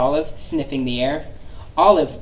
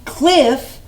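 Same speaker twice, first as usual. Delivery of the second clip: high alarmed yelp; startled at the word cliff; 9 semitones higher, 4 dB louder than usual. Acted. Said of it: "Olive yelped".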